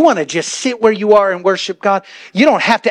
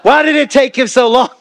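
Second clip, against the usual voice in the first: gossiping churchgoer; 4 semitones higher than usual. Retold or imitated. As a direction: build into nosy disbelief. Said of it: "Some people think that".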